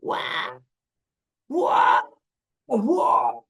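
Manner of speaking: high loud wailing wah; imitated baby scream; baby crying imitation. Shown as a demonstration. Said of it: "you can kinda hear it".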